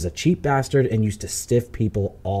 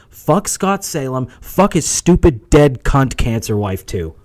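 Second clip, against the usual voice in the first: mock rant; 3 semitones higher, 5 dB louder than usual. Ranting at the guest.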